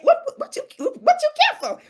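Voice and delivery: high, loud cry of disbelief at the brothers; exasperated disbelief. Real, not acted. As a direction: shriek it in disbelief. Exasperated at gossiping men.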